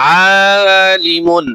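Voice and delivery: তলিবুন said very slowly, the first vowel held one alif long; slow Quranic spelling blend; drawn-out blend. Shown as a demonstration. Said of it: "এক আলিফ করে টান দিয়ে পড়তেছি".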